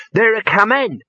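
high-pitched call; excited boy's shout. A narrator's reading. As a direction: shout the news like an excited lad. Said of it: "shouted the boy".

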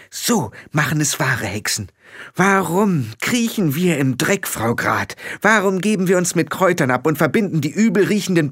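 a hint of a girl demanding answers; Tiffany's voice. Tiffany confronting Frau Grad about magic, mild heated challenge.

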